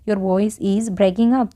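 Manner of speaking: very slow, word by word; slow model sentence. Shown as a demonstration. Teacher modelling an English sentence for Hindi learners, very slow. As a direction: say it slowly so learners can follow. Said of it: "ये हम phone पे बोल सकते हैं".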